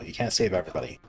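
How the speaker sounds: soft, resigned motto read. Shown as a demonstration. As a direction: drop the voice and state your motto. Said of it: "That's my motto".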